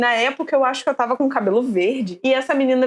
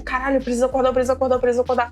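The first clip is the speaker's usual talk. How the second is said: 1 retold panicked plea; much faster than usual. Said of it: "E eu berrava muito".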